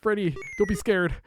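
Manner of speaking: normal talking voice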